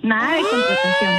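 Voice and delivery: high excited cry of insistence; emphatic shout. Real, not acted. Woman insists he clean.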